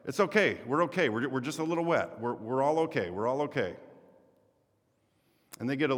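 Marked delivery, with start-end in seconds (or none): 0.0-3.8 cheerful reassurance. Retold or imitated. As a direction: keep soothing the boatman, brightly. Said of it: "And he's like".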